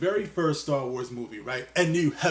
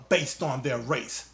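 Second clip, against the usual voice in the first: bad British accent; slower than usual. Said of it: "I know, my accent sucks".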